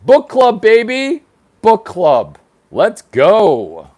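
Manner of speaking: loud, high hype call; hyped shout. Real, not acted. Opening the book club stream, loud hype shout. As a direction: pump up the crowd.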